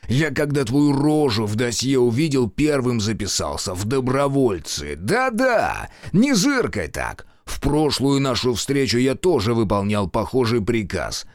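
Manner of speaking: мстительный генерал, с издёвкой; злорадный старый генерал. Acted. General voice again. (злорадный генерал)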